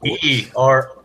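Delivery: hammed-up Canadian stereotype accent. Shown as a demonstration. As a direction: put on a polite, folksy Canadian accent. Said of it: "I can do a Canadian accent".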